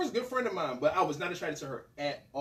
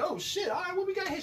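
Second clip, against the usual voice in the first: high, wide-eyed wonder; amazed; 12 semitones higher, 3 dB quieter than usual. Retold or imitated. Hood kid entering a big house, amazed and high. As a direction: take in the luxury in awe.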